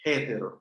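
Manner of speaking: "Héteros" begun with a Spanish J sound; an aspirated, J-like start on "Héteros"; rough breathing. Shown as a demonstration. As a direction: say "Héteros" with a J before the first vowel. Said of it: "se pronuncia con una J antes de la vocal".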